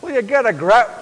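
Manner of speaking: put-on light Northern Irish accent, rising at the end. Preacher shows off an exasperated retort, Northern Irish accent. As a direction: give it your best Northern Irish accent. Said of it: "That was my best Northern Irish accent".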